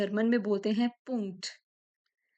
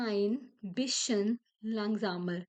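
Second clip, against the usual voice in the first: ein bisschen langsamer drawn out slowly; slow model phrase; much slower than usual. Shown as a demonstration. Teacher models asking someone to slow down. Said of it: "और".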